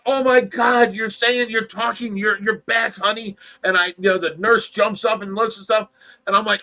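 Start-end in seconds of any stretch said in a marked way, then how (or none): 0.0-3.4 higher-pitched, excited disbelief; retold amazement. Telling Tracy she is back in the dream, amazed. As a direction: re-enact overjoyed astonishment.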